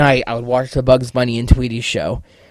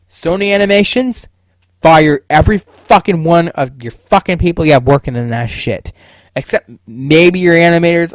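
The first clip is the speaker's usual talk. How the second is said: louder, raised pitch, telling off the studio; angry call-out; 4 semitones higher, 5 dB louder than usual. Real, not acted. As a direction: shout your demands at Sony like a fed-up fan. Yelling at Sony Animations.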